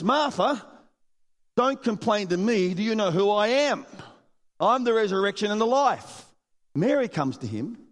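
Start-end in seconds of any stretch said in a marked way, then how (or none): 0.0-6.2 mildly scolding Jesus. Retold or imitated. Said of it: "In other words".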